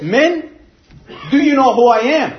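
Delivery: lightly acted affronted officer pulling rank; offended officer. British officer to disrespectful drunken sailors, mildly offended. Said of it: "British officer got so offended".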